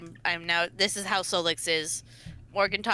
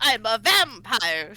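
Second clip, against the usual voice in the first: slow brooding vampire line; cartoony Dracula accent; 4 dB louder, slower than usual. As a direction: drag it out like Dracula. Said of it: "it's like an angry side eye".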